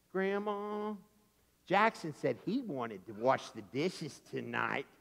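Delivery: slow, drawn-out little-sister voice; volunteer someone else sweetly and slyly; sly innocence. Acted. Sister tells grandma brother will do dishes, slyly.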